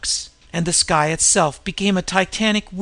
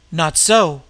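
cried out; 4 dB louder than usual. Acted. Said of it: "cried an older man".

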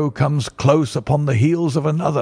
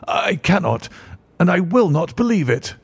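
higher, insistent denial; cried out; 5 semitones higher than usual. Acted. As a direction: refuse to accept it. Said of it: "cried the banker with an ashen".

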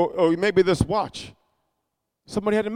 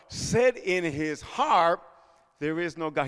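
slow and much softer, drawn out; hushed quote; 3 semitones lower, 6 dB quieter, slower than usual. Acted. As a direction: let the verse sink in quietly. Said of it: "The fool hath".

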